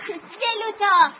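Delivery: long, slow call across the yard; slow calling out to Velota as she comes; drawn-out call. Real, not acted. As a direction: stretch the name out to call her. Kids run to greet Velota.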